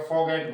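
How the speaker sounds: फॉरगेट said as "faw-get", without the R; silent R. Shown as a demonstration. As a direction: drop the R in फॉरगेट. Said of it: "तो रे नहीं बोलेगा". (फॉरगेट में र मौन)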